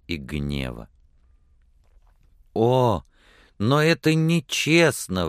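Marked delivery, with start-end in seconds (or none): 2.5-5.3 higher-pitched cry of protest; indignant exclamation. A narrator's reading. Woman protests to the man that it's unfair, exclaiming. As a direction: exclaim it as a hurt, angry protest. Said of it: "воскликнула она".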